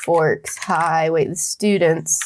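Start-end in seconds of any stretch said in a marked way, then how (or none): 0.0-1.1 slow dramatic reading. Acted.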